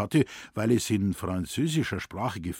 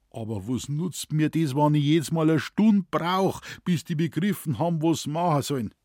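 higher, louder Bavarian complaint; complaining forester; 4 semitones higher, 3 dB louder than usual. A narrator's reading. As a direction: plead with the boss in despair. Moosbichler complaining to forest manager. (klagender Förster, höher und lauter)

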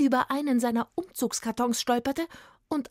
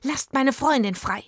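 higher, loud command; shouted demand; 5 semitones higher, 5 dB louder than usual. A narrator's reading. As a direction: demand it boldly at raised volume. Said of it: "schrie Beethoven".

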